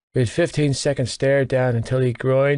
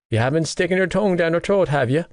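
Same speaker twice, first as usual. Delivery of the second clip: a touch higher, lightly voiced cheeky mate; Gibbsy voiced; 5 semitones higher, faster than usual. Teasing best friend Johnny about Shannon, lightly voiced mate. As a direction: needle your friend with a teasing lilt.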